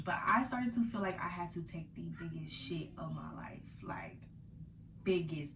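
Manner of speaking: hushed confiding whisper; whispered aside. Real, not acted. Vlogger whispering an embarrassing detail to viewers. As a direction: drop to a whisper for the crude part. Confessing crude feeling, hushed.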